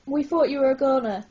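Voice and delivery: quick excited blurt. Acted. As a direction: blurt it out, relieved. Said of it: "Izzy blurt".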